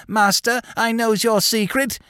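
old man mocking a wheedling servant; squeaky old voice. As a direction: mimic a whining old servant, high and squeaky. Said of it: "in his squeaky old voice".

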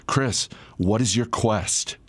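slow, grave, like a bridgekeeper; solemn quest voice. Retold or imitated. Food truck cook questions the customer, slow and solemn. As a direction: hail the knight with mock gravity. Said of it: "the tone of his voice changes".

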